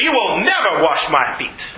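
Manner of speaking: put-on emphatic refusal in a Southern accent; Southern twang, leaning on "never". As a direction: forbid it, Southern style. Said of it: "I really got the southern thing going".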